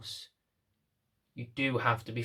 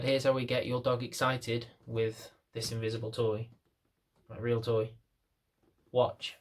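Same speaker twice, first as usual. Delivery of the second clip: patronising; 3 semitones lower, 5 dB quieter than usual. Shown as a demonstration. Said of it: "if I was being really patronising".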